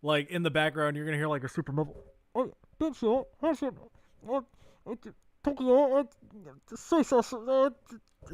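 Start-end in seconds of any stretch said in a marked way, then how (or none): 2.3-8.3 high-pitched fake Japanese, halting phrases; squeaky mock Japanese accent, broken and halting; halting phrasebook tourist. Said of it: "I'm sorry for my awful Japanese".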